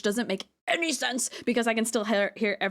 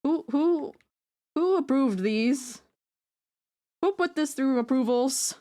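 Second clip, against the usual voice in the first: higher and louder, mock outraged boss; mock indignant; 6 semitones higher, 3 dB louder, slower than usual. Streamer mocking her own hair design, mock outraged. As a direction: demand who signed off on this, hammed up. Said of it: "and then you're like".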